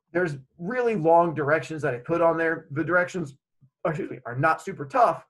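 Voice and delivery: speaking between hiccups; interrupted by hiccups; hiccuping. Real, not acted. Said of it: "Sorry, I keep hiccuping".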